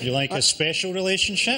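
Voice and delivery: a mildly creepy, suggestive question. Acted. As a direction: make the offer sound a little too intimate. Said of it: "if you say it like that".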